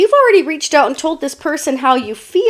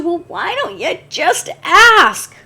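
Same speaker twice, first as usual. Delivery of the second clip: slow, higher, pointed question; pointed retort; 6 semitones higher, slower than usual. Acted. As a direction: nudge them to just ask, half teasing. Tarot reader retorts to hesitant person.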